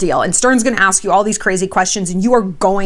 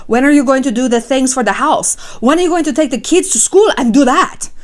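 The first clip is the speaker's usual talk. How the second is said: mock wife; 4 semitones higher than usual. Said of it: "she's sitting there going".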